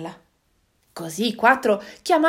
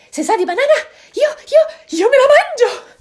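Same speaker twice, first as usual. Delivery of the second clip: much higher, louder monkey chatter; excited monkey; 12 semitones higher, 9 dB louder than usual. Acted. Monkey dreams of banana moon, in a high excited voice. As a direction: bounce it like a greedy monkey.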